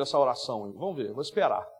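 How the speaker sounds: a bored cruel god waiting, low and dry; sadistic god voice. Retold or imitated. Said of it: "ele fala assim".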